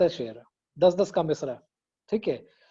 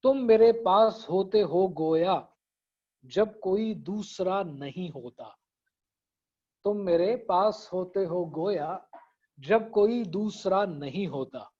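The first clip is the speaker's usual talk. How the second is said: reciting a couplet. Acted. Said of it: "वो एक शेर है, मोमिन का".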